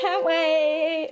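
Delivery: put-on American accent. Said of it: "doing an American accent".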